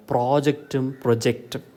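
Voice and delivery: PRO-ject for പ്രോജക്റ്റും, then pro-JECT for പ്രൊജക്റ്റും; contrasting stress. Shown as a demonstration. Teacher naming a common mistake, stress contrasted in പ്രോജക്റ്റും പ്രൊജക്റ്റും. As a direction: move the weight from first to second syllable in പ്രോജക്റ്റും പ്രൊജക്റ്റും. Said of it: "കുട്ടികൾ തെറ്റിക്കുന്ന ഒരു കാര്യമാണ്".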